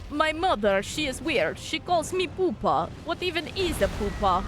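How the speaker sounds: put-on a dog musing in a mild Russian accent. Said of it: "he has, like, a Russian accent".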